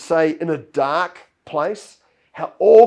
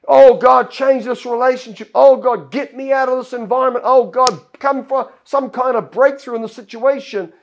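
pleading prayer; 3 semitones higher, 5 dB louder than usual. Retold or imitated. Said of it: "we keep praying".

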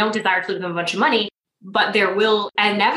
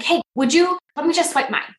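much higher, light and friendly; high, friendly offer to pay for her; kind offer; 8 semitones higher than usual. Retold or imitated. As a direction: make it sound like no big deal. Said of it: "I'm like".

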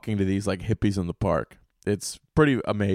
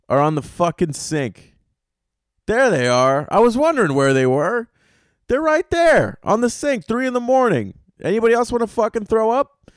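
mock disgust; 11 semitones higher, 4 dB louder than usual. Mock disgust at grandma's teeth.

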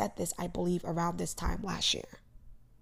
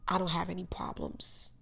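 whispered; 5 dB quieter than usual. Real, not acted. Irony about seeming fine.

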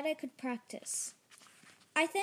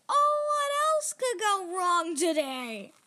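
slow, louder woeful lament; despairing wail; 3 semitones higher, 6 dB louder than usual. A narrator's reading. Injured Jerry on the floor, wailing in despair. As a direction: moan it to the ceiling.

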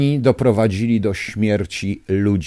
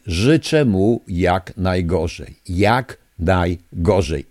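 slow emphatic curse; 3 semitones lower, much slower than usual. Real, not acted. Caller wishes official the worst.

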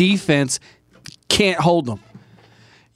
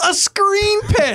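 incredulous; 12 semitones higher, slower than usual. Real, not acted. Disbelief at play.

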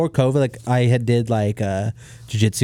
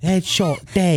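higher-pitched mock English accent; put-on British accent, pitched up; 6 semitones higher, much slower than usual. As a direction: imitate an English fighter's accent. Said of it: "Is it in an accent?".

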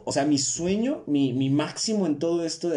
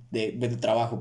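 stumbling; 3 semitones lower than usual. Real, not acted. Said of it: "perdón, me trabé".

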